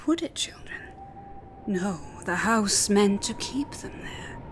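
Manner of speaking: put-on hushed storyteller voice for children; whispered spooky narration. A narrator's reading. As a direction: lean in and whisper the tale.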